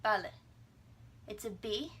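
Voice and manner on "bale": "Bale" as short BAH-leh without a puff; unaspirated B. Shown as a demonstration. Teacher repeats the model, "Bale" without puff. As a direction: release the B of "Bale" with no air. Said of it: "don't let out the little puff of air".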